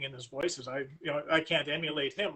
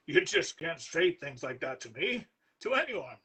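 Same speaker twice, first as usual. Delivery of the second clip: suppressed laughter; 3 dB louder, slower than usual. Acted. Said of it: "still on the verge of laughter".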